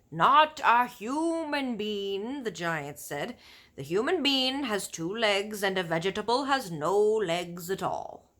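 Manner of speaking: loud, slow, rumbling giant; big friendly giant warning about cannibal giants; BFG giant voice. Acted. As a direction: boom out the giant's grim warning. Giant's voice in story.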